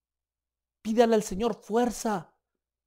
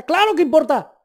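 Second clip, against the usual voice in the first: higher, loud exclaimed answer; preacher's shouted of course; emphatic shout; 9 semitones higher, 10 dB louder than usual. Acted. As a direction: fire it back as the obvious truth.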